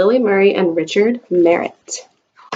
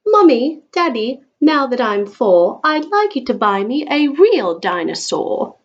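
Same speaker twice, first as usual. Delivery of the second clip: higher, bubbling birthday request; eager child's plea; 3 semitones higher than usual. Acted. Eliza Jane begging her parents for a dinosaur, eager. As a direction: beg like an excited four-year-old. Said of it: "Eliza Jane cried".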